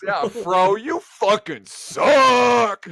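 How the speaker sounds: mock scolding. Mock scolding Fro for tame bracket.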